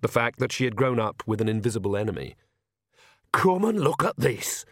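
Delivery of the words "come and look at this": put-on high, drawn-out hiss of an old lady; urgent hiss. A narrator's reading. Nanny grabbing Agnes in the courtyard, urgent high hiss. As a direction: hiss it urgently, pitched well up. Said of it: "hissed Nanny".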